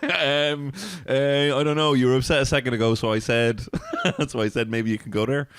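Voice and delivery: mock a mom fumbling for an excuse; imitated flustered mom. Mom explaining herself to her upset child, flustered. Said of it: "And she'd be like".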